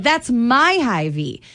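slow, proud, possessive shopper. Retold or imitated. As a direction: claim the store as yours. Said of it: "It's like".

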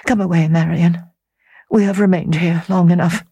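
Laura refusing. Acted.

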